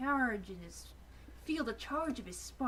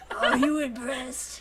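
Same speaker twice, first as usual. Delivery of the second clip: mock impressed tease; 2 semitones higher, 10 dB louder, slower than usual. Teasing in Dinobot voice.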